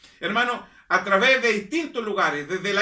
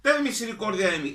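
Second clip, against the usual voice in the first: crying out. Retold or imitated. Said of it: "Comienza a gritar".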